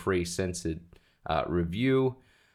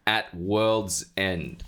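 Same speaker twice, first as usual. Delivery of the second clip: drawn-out movie title announcement; dramatic slow title; 3 semitones lower, much slower than usual. Acted. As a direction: stretch the title out grandly.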